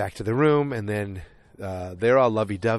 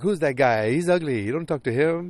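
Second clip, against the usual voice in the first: stereotypical put-on Italian accent, pitched up; 5 semitones higher than usual. Retelling a flirty game, the Italian guy's line, put-on Italian accent. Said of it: "I'm still doing accents".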